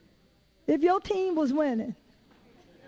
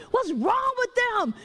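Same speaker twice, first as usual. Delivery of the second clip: mock fussing; 6 semitones higher, slower than usual. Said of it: "fussing at the people".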